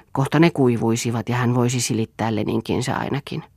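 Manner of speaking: ordinary delivery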